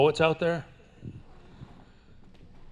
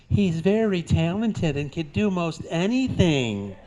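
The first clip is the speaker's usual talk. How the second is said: cowgirl voice; 5 semitones higher, slower than usual. Acted. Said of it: "She says".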